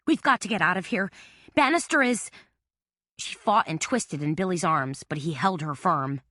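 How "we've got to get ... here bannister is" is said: babbling. A narrator's reading. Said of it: "she babbled".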